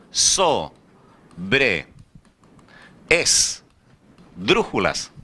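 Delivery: sobre esdrújulas drawn out very slowly, syllable by syllable; careful pronunciation. Shown as a demonstration. Teacher slowly sounding out sobre esdrújulas for the class. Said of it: "palavras chamadas de tipo".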